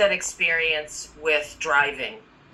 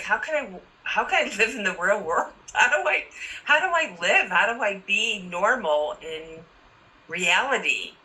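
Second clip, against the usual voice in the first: higher-pitched, mildly frantic self-questioning; retold bewilderment; 4 semitones higher than usual. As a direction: replay your own baffled first thought, pitch climbing. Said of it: "I was like".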